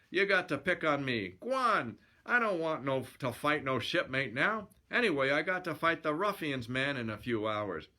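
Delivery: lightly acted fighter's protest; annoyed boxer. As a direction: gripe at the pest picking a fight. Boxer hero brushes off challenger.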